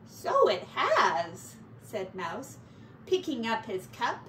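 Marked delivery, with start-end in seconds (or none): 0.1-1.6 drawn-out dismayed answer; slow dry reply. Acted. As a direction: say it slowly, deflated.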